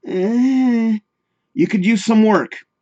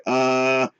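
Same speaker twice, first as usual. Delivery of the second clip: dumb grunt; 6 semitones lower, 6 dB quieter than usual. Retold or imitated. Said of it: "like Beavis and Butthead".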